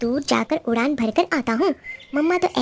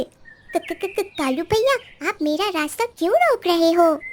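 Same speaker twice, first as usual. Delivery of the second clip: stammering, high frightened voice; scared sparrow; 3 semitones higher than usual. Acted. Sparrow stammers in fear before the crow, high. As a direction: stutter out of fear.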